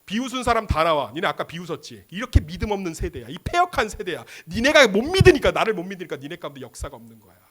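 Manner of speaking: acted rebuke with a loud burst; mock-stern telling-off; scolding. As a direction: call them out like a stern reprimand. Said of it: "예수님 책망합니다".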